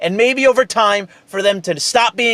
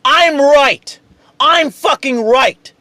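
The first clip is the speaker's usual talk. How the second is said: emphatic; 4 semitones higher, 3 dB louder, slower than usual. Real, not acted. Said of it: "I'm being too loud".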